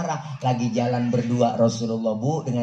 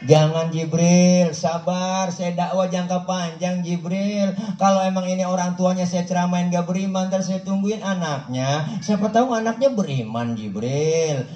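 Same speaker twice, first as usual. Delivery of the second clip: patient refusal; 5 semitones higher than usual. Acted. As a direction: hold him back patiently. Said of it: "Ini kalau bahasa kita".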